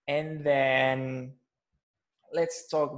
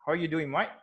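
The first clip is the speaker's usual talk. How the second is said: Aussie greeting with "mate" said like "mite"; Australian accent; 4 semitones higher, 4 dB louder, faster than usual. Shown as a demonstration. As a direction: call out a louder Australian hello, "mate" as "mite". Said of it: "when you're going to Australia".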